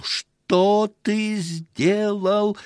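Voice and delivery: high, loud, drawn-out scream of Что ты сделал; shrieking. A narrator's reading. Wife screams at the husband in horror, high and long. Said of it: "кричала Лава".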